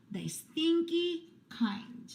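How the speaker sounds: put-on high, slow kid voice, pleased with himself; kid character voice. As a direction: draw it out like a cheeky little boy. Bob adds a smelly cheese.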